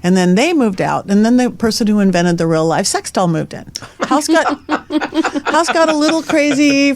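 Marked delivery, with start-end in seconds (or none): 4.0-6.9 amused laugh mid-sentence. Real, not acted.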